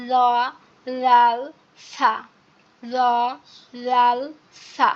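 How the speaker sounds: ল লাল সা with the tongue tip slightly out; Arabic letters with tongue out. Shown as a demonstration. Teacher showing the tongue-out technique. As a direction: push the tongue tip out against the upper teeth. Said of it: "একটু বের করে ... উচ্চারণ করবেন".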